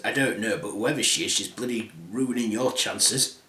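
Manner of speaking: a hint of a scheming stepmother; evil stepmother. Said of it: "The evil stepmother says".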